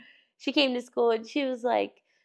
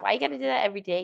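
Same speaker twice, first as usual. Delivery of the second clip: put-on fast kid question; much faster than usual. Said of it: "He's like".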